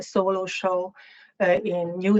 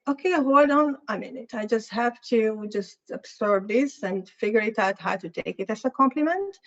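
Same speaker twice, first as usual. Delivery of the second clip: incredulous retort; 4 semitones higher than usual. Retold or imitated. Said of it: "I said, like".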